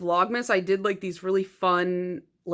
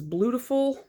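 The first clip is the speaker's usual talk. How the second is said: puzzled reading; 4 semitones higher than usual. Real, not acted. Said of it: "what is this?".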